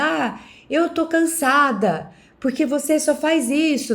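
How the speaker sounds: irritated, fed-up tone. Acting out complaining to someone who played a prank: acting irritated. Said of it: "fica irritada".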